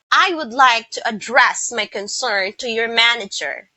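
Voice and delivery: "address" as a verb, stressed on the second syllable. Shown as a demonstration. Teacher using the verb in a sentence, second-syllable stress on "address". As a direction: say a-DDRESS for "address" within the sentence. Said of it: "the second syllable was stressed".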